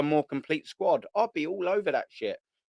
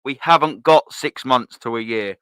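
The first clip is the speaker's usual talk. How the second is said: emphatic retort; 6 dB louder than usual. Real, not acted. Answers the imitated excuse.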